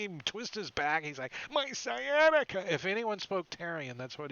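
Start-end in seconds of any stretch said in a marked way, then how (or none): 1.5-2.6 put-on high, loud cry of an aching old creature; old creature's complaint. Creature slipping on monkey poo, high pained cry. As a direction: yelp it like an old critter whose back just went.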